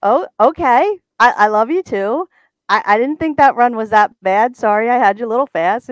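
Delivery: high, apologetic mock voice; sheepish. Sheepish reply retold, laughing.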